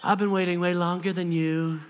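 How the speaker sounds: low, soft grumbling complaint; mock envy. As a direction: sulk about being passed over, hammed-up. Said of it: "she's not like".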